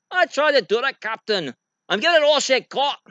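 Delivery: high, frantic ship's engineer; hammed-up Scottish engineer panic; Scotty. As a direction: plead with the captain in a strained accent. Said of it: "that's my Scotty impression".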